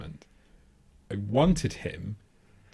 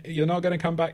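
higher-pitched but unforceful token warning; half-hearted warning; 6 semitones higher than usual. Retold or imitated. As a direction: chime in uselessly, without real urgency. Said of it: "even less usefully than me".

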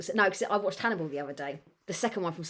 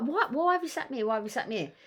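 mock indignant; 4 semitones higher, 4 dB quieter than usual. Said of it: "And I'm like".

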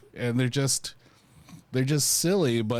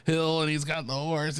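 ordinary talk

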